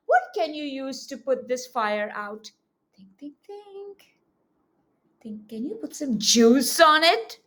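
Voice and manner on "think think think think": muttered thinking. Acted. Pretending to think hard.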